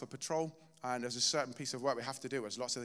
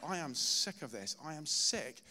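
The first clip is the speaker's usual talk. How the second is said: retold frustrated cry to God; 2 semitones higher than usual. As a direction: pour out the fed-up grievance, rising in frustration. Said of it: "I was literally crying out to God".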